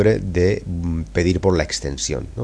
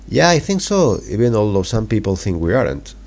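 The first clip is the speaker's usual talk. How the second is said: Carol answering. Acted. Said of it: "os la voy a leer".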